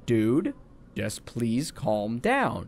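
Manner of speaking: low, slow, soft appeal; retold placating plea. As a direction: act out trying to calm someone. Worker placating a yelling customer, retold.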